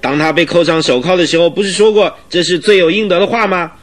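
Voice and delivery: worked-up indignant argument, often pitched high. Acted. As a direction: argue your case with rising indignation. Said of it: "因而愤慨的面红耳赤的赖士德队长". (愤慨地据理力争)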